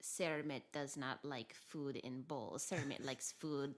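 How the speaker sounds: slow, lightly put-on simple dog voice; Cermet dog voice. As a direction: speak as a stubborn, simple-minded dog. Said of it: "created this voice for Kermit".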